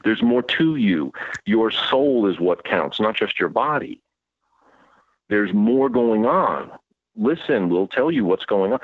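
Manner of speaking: slow, earnest and reassuring; slow earnest message. Retold or imitated. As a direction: lay it out gently and slowly. Aliens' message voiced slowly.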